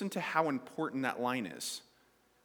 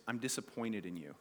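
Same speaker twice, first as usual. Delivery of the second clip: disappointed parent; 6 semitones lower, 8 dB quieter than usual. Retold or imitated. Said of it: "the worst thing they can say".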